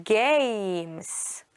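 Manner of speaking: "Games" stretched long on the A, one syllable; games with silent E. Shown as a demonstration. Teacher modelling magic E for pupils, "Games" drawn out in one syllable. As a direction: draw out "Games" slowly, no E sounded. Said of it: "You don't hear E".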